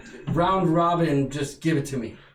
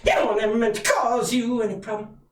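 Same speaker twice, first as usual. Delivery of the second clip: Prince impression; 5 semitones higher than usual. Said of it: "I like your impersonation".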